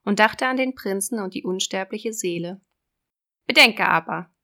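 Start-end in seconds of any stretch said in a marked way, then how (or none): 3.5-4.3 loud, raised sea witch. Acted. Witch voice in fairy tale.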